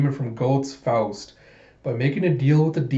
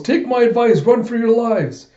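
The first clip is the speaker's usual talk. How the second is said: high, loud, acted urgency; shouted warning; 10 semitones higher, 6 dB louder than usual. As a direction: call back urgently while running off. Fleeing chief shouts a warning.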